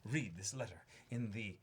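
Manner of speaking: lightly hammed-up, archaic formal reading; old-timey letter voice. Reader voicing a friend's archaic birthday letter, lightly theatrical. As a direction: read it like a quaint gentleman's letter. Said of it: "my old-timey writing barrel".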